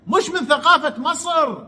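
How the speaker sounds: high, slow, laughing mock echo; mocking disbelief. Mocking the host's claim with laughing disbelief. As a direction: throw his words back with a laugh.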